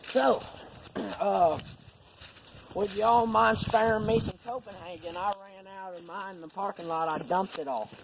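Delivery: a hint of a timid stranger begging; mock polite stranger. Guy at the game begging for Copenhagen, mock polite.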